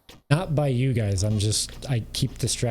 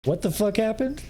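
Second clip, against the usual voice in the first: mock bewildered; 11 semitones higher than usual. Imitating confused streamer.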